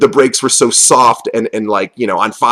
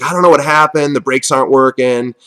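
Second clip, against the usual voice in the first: higher, mock-innocent voice; playing dumb; 4 semitones higher than usual. Driver playing dumb on the phone to the boss, faux-innocent. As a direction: feign not knowing what went wrong. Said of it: "I kinda played dumb".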